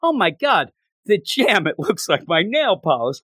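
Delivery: retold girlish delight; enthusiastic. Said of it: "she's so enthusiastic. Yeah, she's like".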